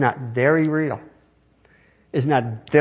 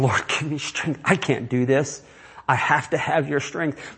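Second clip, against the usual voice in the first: hushed prayer; 5 dB quieter, slower than usual. Acted. Abraham on his face, praying quietly for strength. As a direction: pray quietly in anguish.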